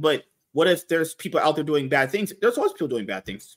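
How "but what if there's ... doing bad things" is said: ordinary talk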